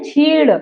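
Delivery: छीड़ with the tongue curled on ड़; छीड़ said with a curled retroflex ending; twisted tongue sound. Shown as a demonstration. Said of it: "ऐसे ऐंठ के बोल रहे".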